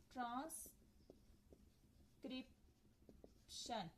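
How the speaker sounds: ट्रांसक्रिप्शन drawn out very slowly and softly, almost whispered; slow careful demo. Shown as a demonstration. Teacher slowly sounding out ट्रांसक्रिप्शन for students, whispered and drawn out. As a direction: stretch ट्रांसक्रिप्शन out slowly so each syllable is heard. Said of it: "ये देखें ट्रांस के अंदर एक आ गया".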